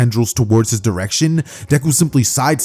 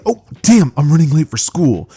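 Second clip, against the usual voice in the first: higher, louder start easing off; acted alarm; 5 semitones higher, 3 dB louder than usual. Deku realising he is late for school, alarmed. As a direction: blurt it out in mock panic.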